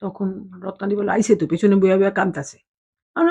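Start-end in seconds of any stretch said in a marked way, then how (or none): 1.1-2.6 a hint of Bangal dialect, matter-of-fact; retelling the line in light East Bengal Bangal speech. Ratna-di telling Didi the girl is crying, in light Bangal dialect. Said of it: "মানে আমরা বাঙাল ভাষা".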